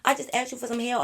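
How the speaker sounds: high, whining mock of the rejected guy; whiny guy voice. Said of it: "He like".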